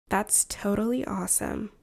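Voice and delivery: a hint of relaxed West Coast accent. Shown as a demonstration. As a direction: lightly demonstrate a laid-back West Coast accent. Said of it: "we have the West Coast accent".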